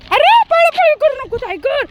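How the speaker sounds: high exclamation, falling off at the end; alarmed cry. Real, not acted. Owner stopping running dog, alarmed high cry. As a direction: cry out to stop a bolting dog.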